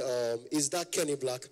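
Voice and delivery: slow, measured big-man voice; lightly imitated wealthy man; deep rich man. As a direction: ask it slowly in a mock-important deep voice. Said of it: "your voice must be deep".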